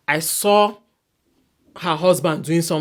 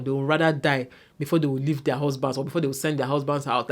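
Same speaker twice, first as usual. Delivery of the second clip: usual speaking voice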